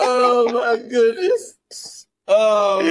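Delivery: disgusted laugh. Real, not acted. Reacting to the gross story.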